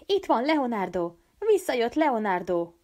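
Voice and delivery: put-on excited children's welcome; children cheering. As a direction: cheer his return. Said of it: "a gyerekek újjongtak".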